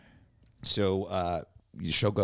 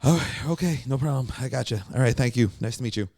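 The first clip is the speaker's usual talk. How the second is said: placating, eager to please; 4 semitones higher than usual. Retold or imitated. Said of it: "I'm like".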